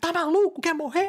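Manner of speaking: threatening high-pitched yell.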